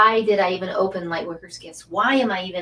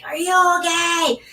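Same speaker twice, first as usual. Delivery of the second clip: higher, concerned friend's voice; worried friend; 9 semitones higher, 3 dB louder than usual. Retold or imitated. Friend at the cliffs asking if she's hurt, higher and concerned. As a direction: imitate her friend checking on her. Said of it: "she's like".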